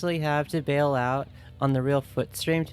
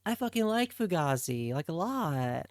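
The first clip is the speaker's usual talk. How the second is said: high, giddy gushing over the band; giddy fangirl gush; 4 semitones higher than usual. Retold or imitated. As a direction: squeal it out like a starstruck fan. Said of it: "and I was like".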